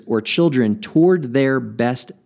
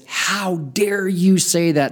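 mock indignant; 5 semitones higher, slower than usual. Imagined angry coach rebuke.

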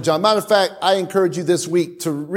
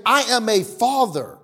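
voice of God. Retold or imitated. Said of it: "Because God is saying".

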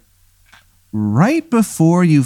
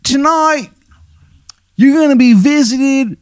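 high, hammy Baltimore "hun" voice; the worst Maryland accent you've ever heard; bad Maryland accent; slower than usual. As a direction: play a ghost with a terrible Maryland accent, way up high. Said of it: "the worst Maryland accent".

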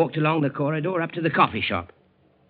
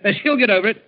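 laughing; 8 semitones higher, 5 dB louder than usual. Acted. Steward laughing about marital quarrel.

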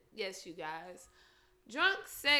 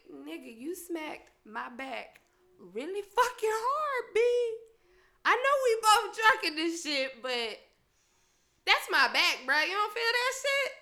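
annoyed complaint; 3 dB louder than usual. Retold or imitated. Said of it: "I'm like".

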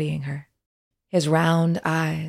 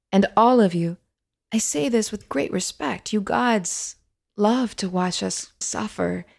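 higher, impassioned plea to the gods; bold outburst; 4 semitones higher than usual. Acted. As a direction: press the point boldly, voice lifted high. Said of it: "she said boldly".

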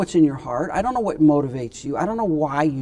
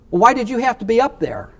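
higher, accusing retort as Bathsheba; mock argument; 6 semitones higher than usual. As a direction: toss the question back in a hammed-up squabble. Acted quarrel, David and Bathsheba.

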